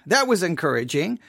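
muttered dry echo; deadpan sarcasm. Real, not acted. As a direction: let the irony sink, deflated. Sarcasm repeated, deflated.

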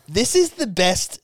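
high-pitched retold delight; giddy man-child. Storyteller voicing his thrilled friend at the gig, giddy. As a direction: mimic an overjoyed friend. Retelling friend's overexcited reaction.

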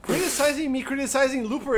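indignant. Real, not acted. Outraged at a friend's movie take.

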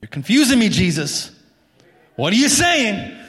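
mock confusion. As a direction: act baffled, addressing Jesus. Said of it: "mock confusion toward Jesus".

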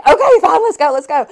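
high, loud eager okay; eager agreement. Retold or imitated. To her running partner, an eager high okay. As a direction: jump at the idea, keen to go.

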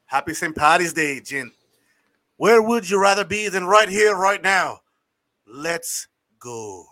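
put-on Irish accent, leprechaun style; lilting Irish leprechaun greeting. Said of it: "indulging us in your leprechaun voice".

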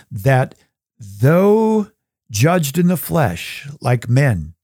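measured reading of the passage; scripture reading. Acted. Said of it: "I'll just read this".

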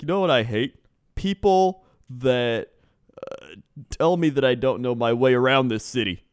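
griping in a mock Canadian accent; lightly put-on Canadian accent. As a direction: grumble like a put-out Canadian driver. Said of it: "need you to use that accent".

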